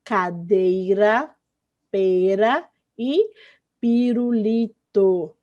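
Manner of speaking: cadeira, pera, pirulito very slowly, each R a light tap; slow syllable-clear demo of cadeira, pera, pirulito, R tapped; weak R words. Shown as a demonstration. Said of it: "as palavras que têm esses sons".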